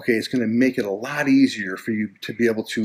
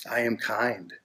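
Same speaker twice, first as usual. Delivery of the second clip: affirmation voice; 7 dB quieter, slower than usual. Shown as a demonstration. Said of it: "start to say things like this".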